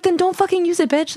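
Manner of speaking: high, mocking snap at the viewer; sassy high-pitched retort; bitchy snap. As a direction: fling it out high and petty. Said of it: "I'm like".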